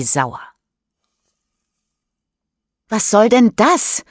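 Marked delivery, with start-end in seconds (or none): 2.9-4.0 higher and louder angry demand. Acted. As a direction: snap at him. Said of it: "fragt sie böse". (böse fragend)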